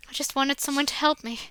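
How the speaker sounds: ordinary talk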